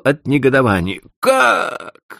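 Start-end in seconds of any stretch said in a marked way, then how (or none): 1.2-2.2 shrieking high, loud demand; a furious cry at the trader; bellowed what. A narrator's reading. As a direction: roar it in disbelief. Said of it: "заорал он".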